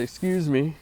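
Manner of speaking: softly polite "Excuse me"; courteous, gentle "Excuse me". Retold or imitated. Asking a store worker to pass, gently polite. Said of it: "very politely".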